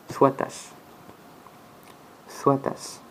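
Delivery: swatas said almost breathless, soft final s; half-whispered plural. Shown as a demonstration. Teacher giving the plural, soft demo. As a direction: softly repeat swatas. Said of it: "Son pluriel est".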